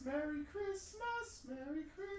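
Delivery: sarcastic singsong. Real, not acted. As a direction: sing it with bitter irony. Sardonic after pricey pizza.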